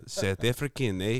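playful South African accent; exaggerated South African impression. Shown as a demonstration. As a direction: put on a jokey South African voice. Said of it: "you could do this accent".

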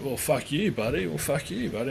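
rising, combative jeer at a stranger; mock angry retort. Mimicking an ego clash: mock angry jeer. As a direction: throw it back like a riled-up bloke.

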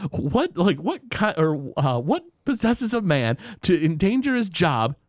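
a hint of a sneering Mr. Burns; imitating Mr. Burns. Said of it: "And Burns is like".

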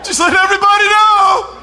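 high, slow, hammed-up announcing voice; mocking someone who celebrates a whole birthday month; mock birthday braggart. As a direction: ham it up like a show-off birthday girl.

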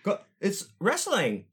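put-on high, slow, laughing kid voice; kid defending. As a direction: play the caught kid pleading innocence. Kid defends show to mom.

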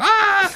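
high, loud scream of a man in a storm; hammed-up terrified cry; mock panicked scream. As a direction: shriek as if the wind is tearing you off the boat. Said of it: "He's like".

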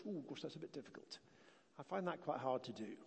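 soft, hesitant mock worry; mock reluctance. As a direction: voice the nervous churchgoer, backing away. Voicing a hesitant churchgoer.

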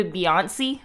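The name ending in a long "see"; emphasized E ending. Shown as a demonstration. Co-host checking his odd pronunciation, emphasized E ending. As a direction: say the name slowly as "bee-on-SEE". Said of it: "you have the accent on the E".

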